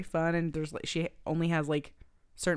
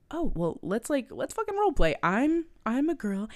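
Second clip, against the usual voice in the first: mock girly voice; 7 semitones higher than usual. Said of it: "Amanda Bynes' character is just like".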